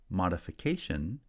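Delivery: main stress on "ca" in "modification"; "modification", lighter first stress, strong fourth syllable; fourth-syllable primary stress. Shown as a demonstration. Teacher showing stress shift, fourth syllable strongest in "modification". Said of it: "primary stress has shifted to the fourth".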